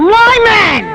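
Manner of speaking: high, drawn-out exultant cry; triumphant proclamation. Acted. Doctor proclaiming his new dog man, triumphant cry.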